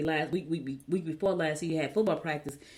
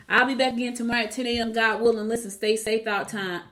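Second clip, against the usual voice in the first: upbeat sign-off; 5 semitones higher, 5 dB louder than usual. Real, not acted. Signing off over music.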